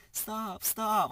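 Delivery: high, rising to a loud burst; retold scared cry. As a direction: imitate a frightened friend crying out. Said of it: "fuck, he's scared".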